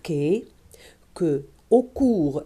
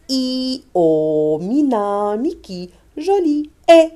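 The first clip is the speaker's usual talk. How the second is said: repetition drill; 5 semitones higher, 5 dB louder, slower than usual. Shown as a demonstration. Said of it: "On répète les lettres".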